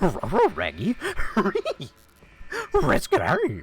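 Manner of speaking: swooping doggy voice with R sounds; cartoon talking dog. Shown as a demonstration. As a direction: woof the words like a cartoon dog. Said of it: "I could also pull, like, the".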